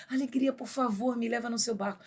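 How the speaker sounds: Love imploring Joy to take him; begging love. Acted. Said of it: "Ele implora já pra alegria". (o amor implorando à alegria)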